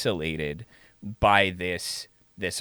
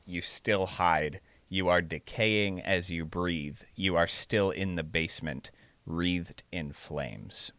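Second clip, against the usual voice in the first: monster voice; 5 dB quieter, slower than usual. Retold or imitated. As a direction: read it like a looming monster. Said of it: "the monster this time around said".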